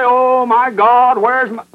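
imitated cry to God, stretched and pleading. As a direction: cry out in slow, high penitence. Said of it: "They'll come and cry and say".

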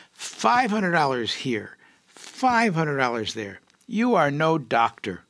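teasing guru. Retold or imitated. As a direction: draw it out like a laughing holy man scolding.

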